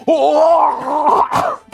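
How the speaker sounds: high, loud startled gasp of a word. Acted. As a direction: jump back in surprise. Schnipp startled seeing Sloan.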